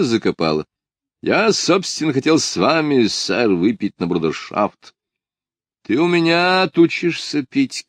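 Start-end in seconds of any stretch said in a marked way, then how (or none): 5.8-7.9 high, ringing shout. A narrator's reading. Lida scolds Ardalion about drinking, shouting. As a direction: scold him with a higher shout. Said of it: "крикнула Лида".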